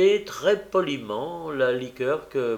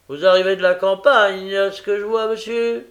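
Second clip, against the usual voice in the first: put-on oily old Fagin; 7 semitones higher, 9 dB louder than usual. A narrator's reading.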